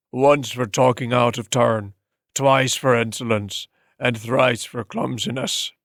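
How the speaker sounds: slow, measured scolding as he strikes; a cruel master counting out punishment; slow old-man menace, each blow named; stern old master. Acted.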